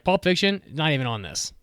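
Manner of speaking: high, loud disbelief; incredulous exclaim. Real, not acted. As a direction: call it out in disbelief. Outraged it's not listed.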